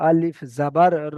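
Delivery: আলিফ জাবার র, slow with the last র drawn out; long vowel reading. Shown as a demonstration. Teacher to students, drawing out the vowel. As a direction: stretch the ending. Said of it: "এখানে টান দিয়ে পড়তে হবে".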